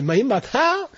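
"Ma yim ba ta?" with pitch leaping up on ta; rising debate challenge. Shown as a demonstration. Teacher demonstrating the rising Tibetan challenge. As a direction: pitch it up at the end. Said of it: "your voice goes up".

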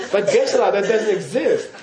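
voicing a student. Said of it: "your mind should say".

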